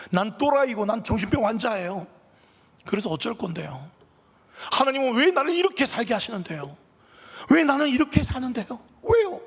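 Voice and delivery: tearful shouting. Acted. Depressed son yelling tearfully at his mother. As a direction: scream it at your mother through tears. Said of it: "큰 소리로 말합니다".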